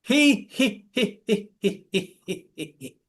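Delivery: a light he he giggle, fading away; hee hee laugh. Shown as a demonstration. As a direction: giggle he he for the class. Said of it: "Change that laughter, start with".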